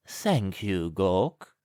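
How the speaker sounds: a touch of a cool, grand lady; lightly voiced aristocrat thanking her servant; haughty lady. A narrator's reading. Lady thanks her servant Gawk, a hint of haughtiness. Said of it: "said the beautiful lady".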